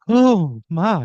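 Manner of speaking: high, loud mock swoon; swooning woman. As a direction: gasp it like someone about to faint. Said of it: "She goes limp in your arms".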